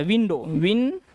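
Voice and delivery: विंडो, then विन cut short to stress the व sound; teacher isolating the व in विंडो; showing the W sound. Shown as a demonstration. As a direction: say विन clipped so the व is clear. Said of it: "ये डब्ल्यू का उच्चारण व से आ रहा है".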